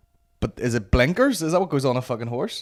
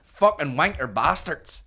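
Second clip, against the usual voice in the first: slow, mildly raised mock swearing; outburst impression; 4 semitones higher, slower than usual. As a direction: imitate a sweary vlogger, drawn out. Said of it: "Is that how he talks?".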